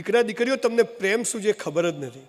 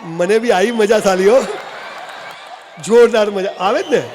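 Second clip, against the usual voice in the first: shouting; 4 dB louder than usual. Acted. Boasting to crowd, shouting.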